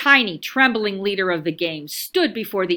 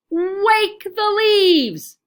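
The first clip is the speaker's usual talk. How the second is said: strong voice; 8 semitones higher, 3 dB louder, much slower than usual. A narrator's reading. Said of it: "Wadney's voice was strong".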